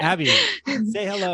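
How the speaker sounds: high, slow woman's voice; man doing a woman's voice. Acted. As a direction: put on a high girly voice. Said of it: "Practice a girl voice".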